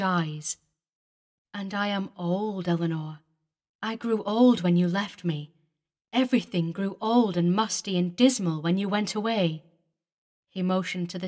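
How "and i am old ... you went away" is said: put-on lamenting old man. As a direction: mourn the years since she left. David laments his age.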